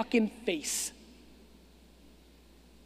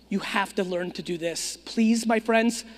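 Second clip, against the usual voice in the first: talking without hearing himself; temporarily deafened; 3 semitones lower than usual. Real, not acted. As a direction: speak with ears blocked, can't hear. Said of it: "I can't hear anything".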